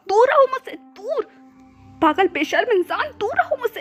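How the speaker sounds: high, loud shout; furious yell. A narrator's reading. Man hurling a statue and yelling at stranger, high and loud. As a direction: shout him away. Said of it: "विजान सिर्फ ईबो की तरफ चिल्ला रहा था".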